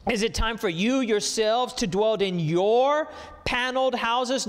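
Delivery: pointed question leaning hard on "your"; contrastive stress. Shown as a demonstration. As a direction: draw out "your" high before "paneled houses". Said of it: "Notice the contrast".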